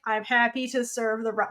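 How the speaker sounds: flat robot monotone. Retold or imitated. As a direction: say it like a dutiful robot. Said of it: "he sounds like a robot".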